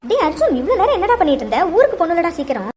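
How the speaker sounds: mother's mild impatient scold. Acted. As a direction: hurry the late son. Mother scolding late son.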